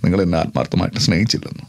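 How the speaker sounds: low, emotional film-star voice; hurt, low-voiced dramatic dialogue with heavy pauses; Mammootty impression. Shown as a demonstration. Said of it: "മമ്മൂക്കയുടെ?".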